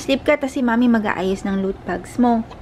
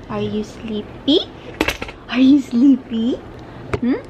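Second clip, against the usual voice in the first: slow, cooing question with a rising end; slower than usual. Real, not acted. Mother asks her baby if she is sleepy, slow baby talk.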